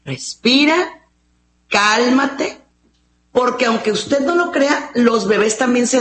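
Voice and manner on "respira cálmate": calming parent. Retold or imitated. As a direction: settle the child down gently. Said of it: "en lugar de decirle". (voz baja y serena para calmar al niño)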